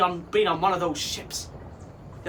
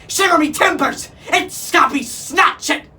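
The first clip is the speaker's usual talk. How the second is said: high, loud squawking parrot cry; 10 semitones higher, 13 dB louder than usual. A narrator's reading. Parrot spotting the pirate captain, alarmed squawk. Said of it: "he squawked".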